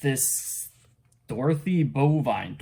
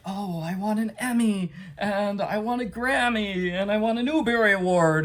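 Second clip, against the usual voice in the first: Piggy demanding; 7 semitones higher than usual. Retold or imitated. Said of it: "It's like".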